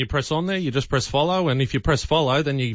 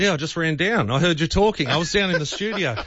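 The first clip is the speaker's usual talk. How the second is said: breathless after running; panting from a quick run down; out of breath; 3 semitones higher than usual. Real, not acted. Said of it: "Oh, I'm out of breath".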